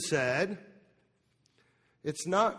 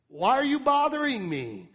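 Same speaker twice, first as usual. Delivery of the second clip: irritated brush-off; 8 semitones higher, 5 dB louder than usual. Retold or imitated. Jesus voiced brushing her off.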